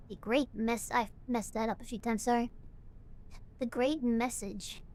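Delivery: a calm, slightly low sermon-like reading; lightly voiced cult leader. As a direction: read the farewell message as a serene cult leader, barely acted. Player reads a cult leader's message.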